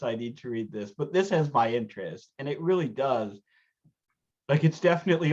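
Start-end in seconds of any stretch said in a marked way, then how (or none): 0.0-0.9 I need to read this fading off softer; trailing quiet repeat. Retold or imitated. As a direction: let the second I need to read this drop and fade. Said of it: "I'm like".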